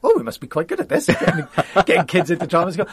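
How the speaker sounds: light laugh through a self-mocking quote. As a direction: chuckle it out, amused at yourself. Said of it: "I was like".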